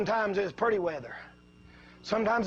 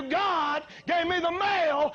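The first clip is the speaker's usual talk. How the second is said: usual speaking voice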